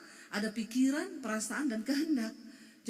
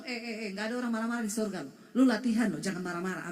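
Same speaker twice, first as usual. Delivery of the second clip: mock scolding; 3 semitones lower, 3 dB louder, faster than usual. Spouse scolding voiced by pastor.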